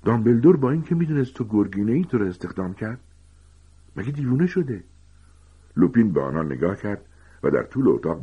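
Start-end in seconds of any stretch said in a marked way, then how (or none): 0.0-4.8 high, agitated gasping outburst; panting. Acted. Ron reacts to hiring a werewolf, panting and incredulous. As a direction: blurt it in high-pitched disbelief, short of breath.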